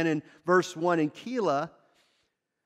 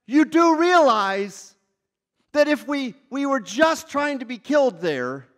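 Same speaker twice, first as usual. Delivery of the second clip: incredulous disciples; 5 semitones higher, 4 dB louder than usual. Retold or imitated. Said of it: "the disciples are like".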